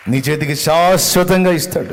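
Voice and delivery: శాశ్వతంగా shouted loud and high; loud preacher's proclamation; preaching shout. Acted. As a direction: proclaim the promise at full voice. Repeated promise, shouted.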